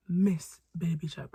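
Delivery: said through a laugh. Real, not acted. Middle-school bully recalls her old nickname, laughing. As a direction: chuckle into the words.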